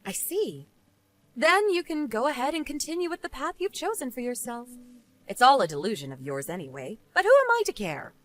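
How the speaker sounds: understated dismissive woman; unsympathetic rebuff. Acted. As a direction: coolly refuse the blame. Jane coolly threatens Eleanor.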